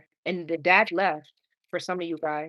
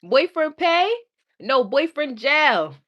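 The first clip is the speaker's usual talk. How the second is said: laughing; 8 semitones higher, 5 dB louder than usual. Real, not acted. Laughing banter over misheard words.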